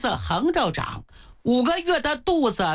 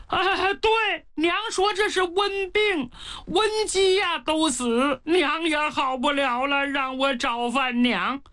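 simple giant; 4 semitones higher than usual. Acted. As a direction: speak like a naive big child. Pang Hu explains, childlike. (憨傻孩子气的声音)

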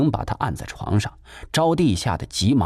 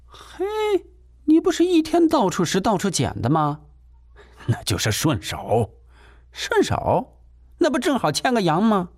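high, sneering landlady jab; snide insinuation; 10 semitones higher than usual. Acted. Landlady hinting the tenant steals, high and sneering. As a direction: twist the knife with a high sneer.

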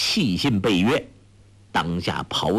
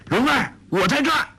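fast, much higher call toward the cave; shouting; faster than usual. A narrator's reading. Young man calling to his beloved from outside, urgent shout. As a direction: yell out to reach her from outside. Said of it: "大叫".

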